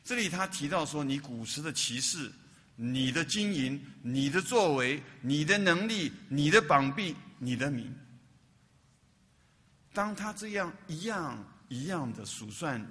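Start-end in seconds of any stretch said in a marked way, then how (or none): 1.0-7.9 slow list growing louder item by item; building emphasis. Acted. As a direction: build each phrase louder and slower. Preacher lists God's mighty works. (一句比一句响亮，放慢强调)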